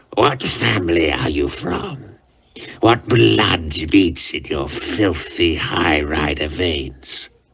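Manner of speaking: low, rough, dusty, gravelly voice. A god climbs toward a crying boy on a throne and questions him: gravelly dusty half-whisper. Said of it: "his gravelly voice now a dusty whisper".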